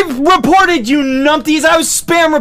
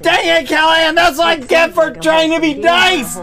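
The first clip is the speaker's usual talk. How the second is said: frustrated raised-voice ranting; swearing tirade; 5 semitones higher than usual. Real, not acted. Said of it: "B A S T A R D".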